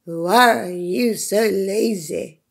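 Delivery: jaguar voice. Acted. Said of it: "said the jaguar".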